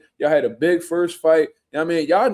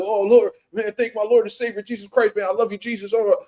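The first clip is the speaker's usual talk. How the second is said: higher, gushing churchy thanks; sing-song mock devotion, raised pitch; mock pious gushing; 5 semitones higher than usual. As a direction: ham up a preachy thank-you to Jesus. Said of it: "and then you wanna talk like this".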